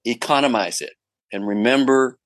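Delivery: an Aussie director giving friendly notes, half mimicked; Aussie director impression. Director coaching the actor about close-ups, in a light Aussie accent. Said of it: "he might have been an Aussie".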